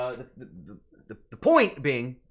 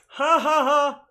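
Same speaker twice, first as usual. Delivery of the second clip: mock laugh; 10 semitones higher, 8 dB louder, slower than usual.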